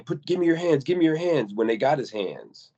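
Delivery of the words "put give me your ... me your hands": retold police orders. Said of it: "they keep saying".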